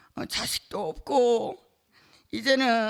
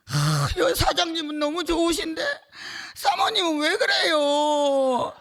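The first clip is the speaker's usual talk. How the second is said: mock whiny customer; 7 semitones higher, 3 dB louder than usual. Church member quoting a customer's complaint, whiny and tearful. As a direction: whine it like a customer who feels cheated.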